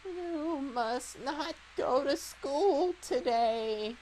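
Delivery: put-on slow, creaky old man voice; grumpy old man. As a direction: drag it out like a stern old man. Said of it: "I can do an old man voice".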